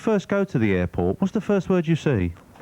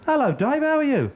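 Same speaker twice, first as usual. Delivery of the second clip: much higher, cheery group greeting; chorus of blokes; 11 semitones higher than usual. Acted. Six blokes at the bar hail Dave in a high cheery chorus. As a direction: sing it out like a gang of mates.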